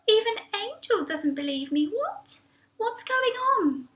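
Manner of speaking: soft, high, stunned; hurt inner thought. Acted. Mac hurt that her friend doubts her, soft and stunned. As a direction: think it quietly, bewildered.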